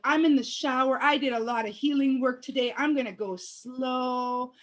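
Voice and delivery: drawn out slowly, taking her time; deliberately slow, defiant calm; slow and unbothered. Retold or imitated. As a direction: stretch the words lazily. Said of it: "taking my sweet ass time".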